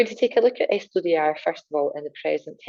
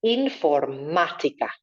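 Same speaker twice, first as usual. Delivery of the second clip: informática with a strong stressed middle á, infor-MA-tica; big stressed a; slower than usual. Shown as a demonstration. Teacher modelling informática, big middle á. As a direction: punch the á in informática. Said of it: "Big angry A in the center".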